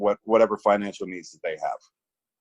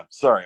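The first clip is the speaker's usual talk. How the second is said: shaky sigh; 4 dB louder than usual. Real, not acted. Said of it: "I'm trying not to cry".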